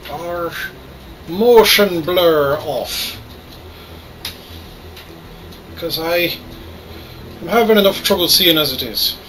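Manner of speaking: put-on Irish brogue throughout; hammy Irish accent. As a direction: play it as a cheeky Irishman. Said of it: "today I'm playing Star Citizen with an Irish accent".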